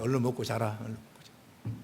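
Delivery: fading to a near whisper on the repeat; lulling grandmother. Retold or imitated. Grandmother lulls the grandson to sleep, trailing into a whisper. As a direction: hush it down like putting a child to sleep. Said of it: "그 할머니는 뭐라고 하는지 알아요?".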